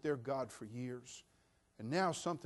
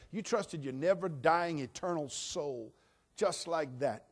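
usual speaking voice

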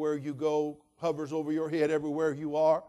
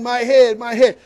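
put-on loud anguished cry of a hurt boy; mock wail of pain; 8 semitones higher, 17 dB louder, slower than usual. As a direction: cry out holding your aching head. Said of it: "he's saying".

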